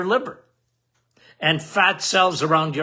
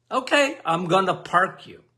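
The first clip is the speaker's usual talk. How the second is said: insulin voice. Acted. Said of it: "why am I talking like this?".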